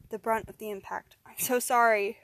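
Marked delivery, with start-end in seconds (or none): 1.2-2.2 loud, desperate apology; crying out. Acted. Man forced to attack his friend, loud cry. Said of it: "cried Steve".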